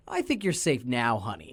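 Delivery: low, knowing dad delivery. Retold or imitated. Arthur's dad reassuring D W about a heart attack, knowingly.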